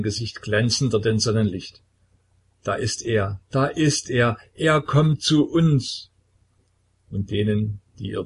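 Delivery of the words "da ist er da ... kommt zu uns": terrified. A narrator's reading. Possessed woman sees him coming.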